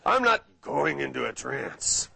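a lightly voiced nervous seminar-goer digging in; mocking a resistant subject. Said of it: "people are holding on to the side of chairs".

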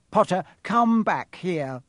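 loud, high, slow command; shouted. A narrator's reading. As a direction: shout after the boy to return. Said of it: "Quirrell shouted".

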